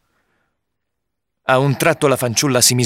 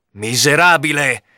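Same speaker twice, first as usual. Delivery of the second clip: slow, drawn-out shouted insult, higher pitch; angry cry; 4 semitones higher than usual. A narrator's reading. Knight attacking the supposed assassin, crying out angrily. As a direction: cry it out long, at moderate volume. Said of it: "continuava a gridare il cavaliere".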